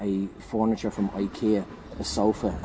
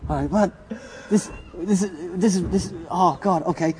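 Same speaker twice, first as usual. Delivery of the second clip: high, laughing, can't get words out; real laughter breaking the words; 9 semitones higher than usual. Real, not acted. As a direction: speak through real giggles. Speaker cracking up at story.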